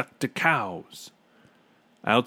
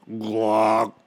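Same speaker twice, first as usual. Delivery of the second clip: imitated clogged horn; 4 dB louder than usual. A narrator's reading. Imitates clogged trumpet noise.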